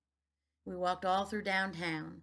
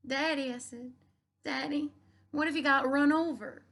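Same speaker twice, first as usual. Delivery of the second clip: high, louder, anxious plea; worried child; 7 semitones higher, 6 dB louder than usual. A narrator's reading. Daughter to preacher on the highway, high worried plea. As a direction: fear the dog was hit.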